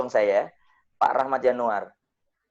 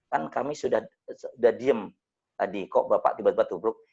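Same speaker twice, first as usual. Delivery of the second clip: calm, not angry; 4 semitones lower than usual. Retold or imitated. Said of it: "Tapi nadanya bukan nada marah".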